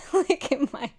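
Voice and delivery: high, squeaky voice through laughter; cracking up, pitch climbing high; helpless laughter. Real, not acted. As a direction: squeeze the words out between laughs. Cracking up at the photo.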